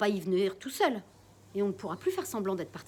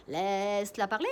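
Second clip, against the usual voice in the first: parrot repeats; 3 dB louder than usual. Acted. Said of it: "Jaco reprend".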